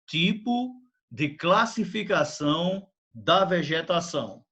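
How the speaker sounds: slow, clear dictation pace; dictating. Shown as a demonstration. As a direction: dictate it slowly for copying. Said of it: "Escrevam, por favor".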